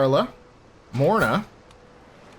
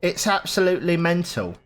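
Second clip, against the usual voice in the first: higher, hammed-up amazement; put-on exclamation; 4 semitones higher than usual. Player marvels at Craster's many children, hammed-up voice. Repeats catchphrase in exaggerated put-on voice.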